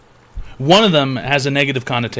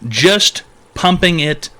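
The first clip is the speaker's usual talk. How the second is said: a slow quoted echo; 2 semitones higher, much slower than usual. Retold or imitated. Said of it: "You said".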